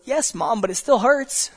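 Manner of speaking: child telling her mom it still hurts, lightly voiced. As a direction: whine it like a child with a skinned knee. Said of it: "the child goes".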